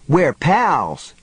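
high-pitched, slightly hysterical exclamation; giggly hysteria. A narrator's reading. Mary to the voice after the spider spared her, giddily hysterical. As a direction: pitch it up with a touch of giddy hysteria. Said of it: "She giggled, a high-pitched, hysterical sound".

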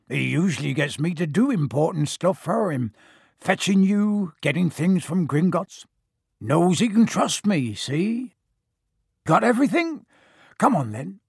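lightly voiced big, bluff giant; a gruff, friendly giant, lightly done; Hagrid voice.

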